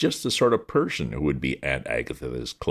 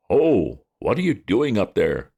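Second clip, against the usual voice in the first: gruff policeman; 6 semitones higher, 5 dB louder than usual. A narrator's reading. Policeman questions Bertie.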